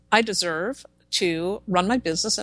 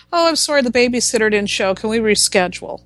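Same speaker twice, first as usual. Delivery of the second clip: mock a client's last-minute apology; a hint of a put-on excuse-making client; imitated apologetic client; 4 dB louder than usual.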